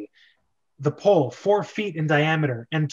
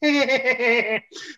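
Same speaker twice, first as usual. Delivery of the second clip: villainous cackle; 8 semitones higher than usual. Acted. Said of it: "Koopa erupts in villainous cackling".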